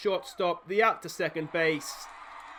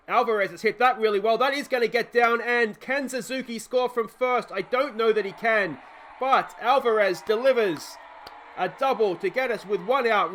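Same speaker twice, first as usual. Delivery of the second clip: rising excitement, a bit louder; excited play-by-play; 3 semitones higher, 4 dB louder than usual. Real, not acted. Commentator follows Alvarez's hit to the outfield, excitedly. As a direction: call the hit with mounting excitement.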